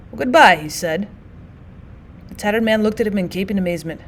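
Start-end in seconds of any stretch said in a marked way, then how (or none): 0.1-0.6 cold, hard farewell. Acted. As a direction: say it flatly and hard. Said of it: "spoke in a hard voice".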